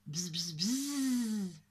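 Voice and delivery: drawn-out imitation buzzing; bee buzz. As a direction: buzz like a bee, holding the last one. Narrator imitates small bee. (long bourdonnement d'abeille)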